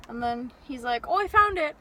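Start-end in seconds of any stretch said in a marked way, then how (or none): 1.1-1.7 mock excited find. Imitating clerk finding it.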